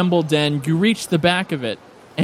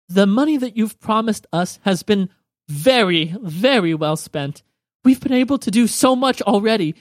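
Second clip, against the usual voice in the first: slightly raised, eager character voice; lightly voiced gracious Joe Rana; 4 semitones higher than usual. Joe Rana reporting to her benefactors, lightly voiced and eager. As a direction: greet them with a touch of excitement, a little higher.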